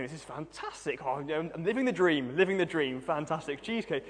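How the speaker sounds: mock-ecstatic student praising his cheesecake; gleeful gorging. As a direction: play the greedy student loving every bite.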